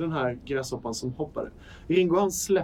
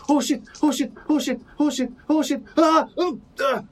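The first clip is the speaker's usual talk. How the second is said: panicked high yelping, breaking into cries; a musician; 11 semitones higher, 5 dB louder than usual. Acted. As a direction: panic loudly, far above your usual pitch. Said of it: "du kan höra han säger".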